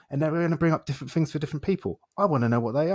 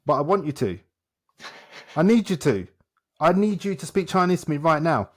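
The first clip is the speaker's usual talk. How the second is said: mock-insistent demand, pitch raised; 4 semitones higher, 3 dB louder than usual. Shown as a demonstration. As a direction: press harder with each plea, a bit higher. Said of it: "whether I shout at you".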